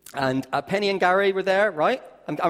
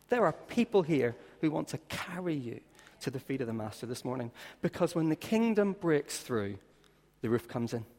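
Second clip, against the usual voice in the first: soft, reassuring appeal; 4 dB quieter than usual. Acted. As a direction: speak gently to the newcomer.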